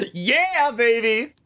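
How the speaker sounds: loud high gleeful whoop; triumphant cheer. Real, not acted. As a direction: celebrate like you won.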